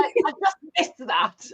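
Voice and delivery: sister greeting strangers, high and loud with joy; excited high call. Retold or imitated. Imitating sister on the metro, excited high voice.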